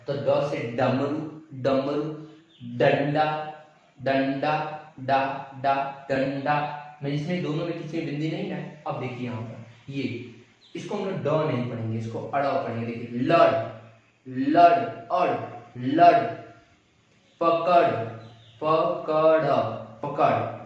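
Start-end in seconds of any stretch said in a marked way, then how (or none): 0.3-6.8 "डमरू" and "डंडा" with a clear hard retroflex d, word by word; teaching pronunciation. Shown as a demonstration. 12.8-20.6 "लड़" and "पकड़" louder, ending on a flapped retroflex r; teaching pronunciation. Shown as a demonstration. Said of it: "वहाँ अड़ हो गया".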